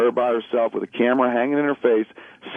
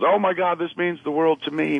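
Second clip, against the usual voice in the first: lightly mocked award acceptance, pitched up; higher, hammed-up gratitude; mock gushing winner; 6 semitones higher than usual. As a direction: gush like a self-absorbed winner, half in jest. Mimics a self-absorbed award winner.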